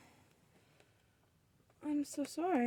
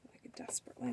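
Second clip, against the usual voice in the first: whisper; 3 semitones higher, 6 dB quieter, much faster than usual. Real, not acted. Whispering while sewing.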